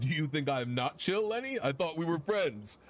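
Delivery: mildly wounded, pitch lifting into the question; mock hurt. Affogato thought they were friends, mildly hurt protest. Character reacts to being called not chill.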